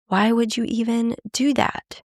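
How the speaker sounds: accusing challenge; aggressive. Shown as a demonstration. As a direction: throw it at them like an accusation. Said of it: "is aggressive".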